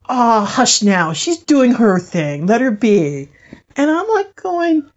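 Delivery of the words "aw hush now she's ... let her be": lightly voiced older spirit; a hint of an elder gently shushing. Older spirit hushing a giggling little one, lightly imitated. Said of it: "this other older voice go".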